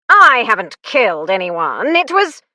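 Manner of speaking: panicked denial; protesting. Acted. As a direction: blurt a frightened denial. Accused man protesting.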